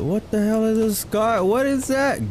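exasperated disbelief. Real, not acted. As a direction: throw your hands up, baffled. Rising exasperation at item.

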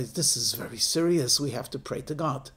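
low, serious pronouncement; a touch of solemn authority; grave rabbi. Acted. Rabbi responding to plague report, low and grave.

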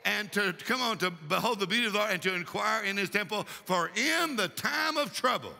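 rolling, run-on recitation of a psalm; scripture recitation. Real, not acted. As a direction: recite scripture in a steady, driving stream.

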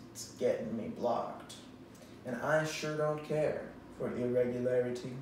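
overwrought dramatic reading voice; hammy stage actor. Acted. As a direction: recite song lyrics like grand theatre. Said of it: "performing a dramatic reading".

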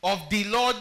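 "Lord" loud, rising; stress on Lord. Shown as a demonstration. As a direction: hit "Lord" to the church. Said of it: "You didn't hear me, church".

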